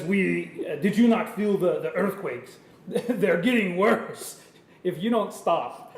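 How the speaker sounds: put-on clumsy big Russian bear accent; amused, badly faked Russian accent. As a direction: warn them in a wobbly mock-Russian accent. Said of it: "he's gonna talk like the big Russian bear".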